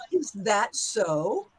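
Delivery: very slow rising "Is that so?"; drawn-out curious question; questioning confirm. Shown as a demonstration. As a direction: draw it out, checking if it's true. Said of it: "so we're gonna try this".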